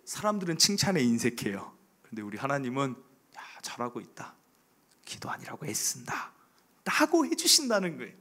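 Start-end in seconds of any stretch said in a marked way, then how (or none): 3.4-6.3 soft whispered praise, barely voiced; God's whisper. God praising the pastor for his effort, in a whisper. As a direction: hush it like a secret blessing.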